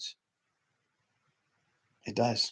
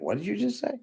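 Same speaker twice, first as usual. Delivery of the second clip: much higher, indignant disbelief; imitated shocked listener; 13 semitones higher, 5 dB quieter, faster than usual. Speaker voicing the audience's shocked reply, high and indignant. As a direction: play the offended listener gasping back. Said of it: "I know you're like".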